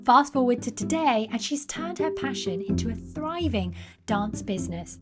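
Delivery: measured, polished host voice-over; podcast intro narration. Acted. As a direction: read a scripted guest introduction with deliberate emphasis. Reads scripted podcast introduction.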